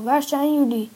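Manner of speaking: loud, high searching shout. A narrator's reading. Rescuer wakes the sleeping friends, shouting loudly. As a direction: yell to find where they are. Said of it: "die heel hard aan het schreeuwen".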